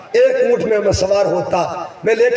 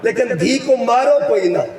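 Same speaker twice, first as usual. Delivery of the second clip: public announcement. Retold or imitated. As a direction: cry it out to all the Arabs like a town crier. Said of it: "اعلان کرتا تھا".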